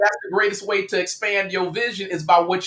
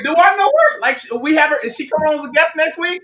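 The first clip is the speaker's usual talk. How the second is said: mock confusion; 6 semitones higher than usual. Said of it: "I'm like".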